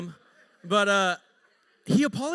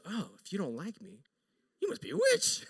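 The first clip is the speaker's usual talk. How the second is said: squeaky mock voice. Wife's retort voiced high.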